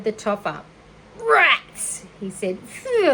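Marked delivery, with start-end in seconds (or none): 1.2-2.0 loud, high cry of disgust; disgusted exclamation. Acted. Lurvy discovering the rat's nest, loud and disgusted. 2.6-3.1 high, loud recoil from a stench; disgusted phew. Acted. Lurvy recoiling from the egg stink, high and loud.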